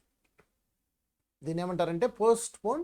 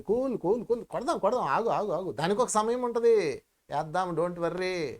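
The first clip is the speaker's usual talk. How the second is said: calming self-talk. Shown as a demonstration. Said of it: "సంయమనం చేయాలి".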